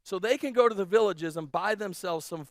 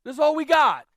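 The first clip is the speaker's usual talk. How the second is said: louder, higher, a touch of panic; anxious disciples; 3 semitones higher, 5 dB louder than usual. Retold or imitated. Disciples pleading with Jesus about too little food, worried. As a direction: worry about the tiny food supply. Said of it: "Like, like".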